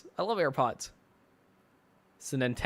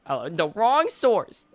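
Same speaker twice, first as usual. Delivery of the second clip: mocking; 2 semitones higher, much slower than usual. Mocks the comment just read.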